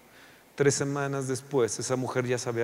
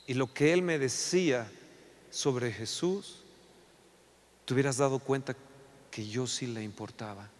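hushed testimony; 5 dB quieter than usual. Acted. Wife tells husband of evangelist.

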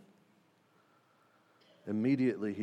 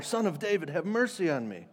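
higher, louder plea; shouting louder; 5 semitones higher than usual. Acted. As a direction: cry out over the scolding crowd. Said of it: "he shouted all the more".

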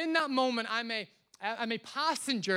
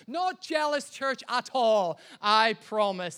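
emphatic, drawn-out mock denial; mock protesting denial; 6 dB louder, slower than usual. Real, not acted. Preacher joking to the church about his wife's trip, mock protesting denial. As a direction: protest loudly that you're fine.

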